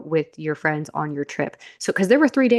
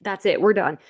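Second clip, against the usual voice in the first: higher, scolding voice of her fed-up body; 5 semitones higher than usual. Pretend. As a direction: play the body telling her off.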